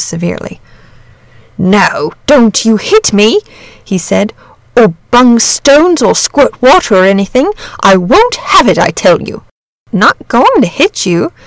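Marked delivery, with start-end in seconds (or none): 1.6-3.4 a hint of a wary dragon; lightly voiced touchy dragon. A narrator's reading. Dragon character speaking. 4.7-9.4 a hint of a wary dragon; lightly voiced touchy dragon. A narrator's reading. Dragon character speaking. 9.9-11.3 weary. A narrator's reading. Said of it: "said the boy wearily".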